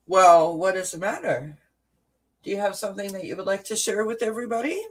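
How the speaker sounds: high, fast coaxing for a pet. Real, not acted. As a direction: coax the kitty sweetly. Coaxing the cat to speak.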